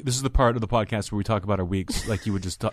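mock-formal podcast host intro; teasing parody of a co-host's habit; sarcastic. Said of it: "sarcastically to make fun of you".

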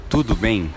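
tudo bem as TOO-doo beng, nasal end; Portuguese tudo bem. Shown as a demonstration. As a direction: say tudo bem with the m fading into the nose. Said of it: "So it's like, oi".

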